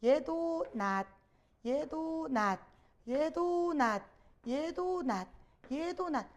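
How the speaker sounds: each 낫 ends in an unreleased t; same final sound. Shown as a demonstration. Teacher showing students modern Korean finals, identical 낫 with stopped t. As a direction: chant "얘도 낫" evenly, every 낫 closed on a stopped t. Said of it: "전부 다 발음 어떻게 해요?".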